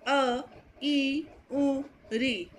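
अ, ई, उ said short and clipped; crisp short vowel drill; short vowels demo. Shown as a demonstration. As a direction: give each short vowel quickly. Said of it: "उन्हें ह्रस्व स्वर कहते हैं".

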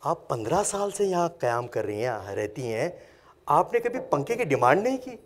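put-on softly, lovingly asking an elderly mother; loving question. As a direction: ask gently, lifting into a puzzled question at the end. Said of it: "ماں سے بڑے پیار سے پوچھا". (پیار سے، دھیمی آواز میں پوچھنا)

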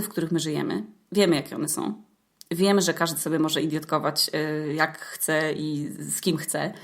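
normal talking voice

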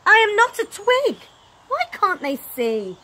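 high, loud indignant cry; protesting Stickman. Acted. Stickman crying out at the swan, high and loud.

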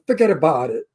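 New York "forget about it", run together; demonstrated New York catchphrase; New York accent. Shown as a demonstration. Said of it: "something that's more New York".

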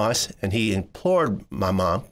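ordinary delivery

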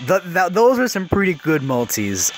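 stammering start; stuttering. Real, not acted. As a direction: trip on the first word. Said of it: "I keep stuttering".

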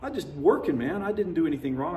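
retold shock. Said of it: "and I was just like".

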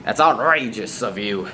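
hammed-up clean-mouthed telling-off; mock scolding. Showing how to be mad at Johnny, mock angry.

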